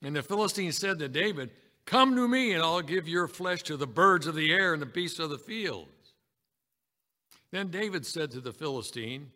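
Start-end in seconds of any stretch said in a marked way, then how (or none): 1.9-5.9 booming giant. Acted. Giant Philistine threatening to kill David, booming. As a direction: boom out the giant's threat, hardest at the start. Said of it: "this big giant with that booming voice".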